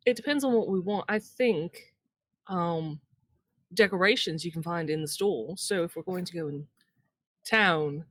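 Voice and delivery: put-on a faltering Southern accent that keeps slipping; a half-hearted Southern twang; Southern accent attempt. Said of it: "I apologize in advance for this accent".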